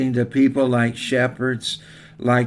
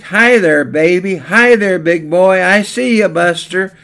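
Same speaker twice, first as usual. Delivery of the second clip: higher, louder playful hail; calling out to baby; 5 semitones higher, 4 dB louder than usual. Retold or imitated. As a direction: call out to a baby across the room. Old man hailing baby.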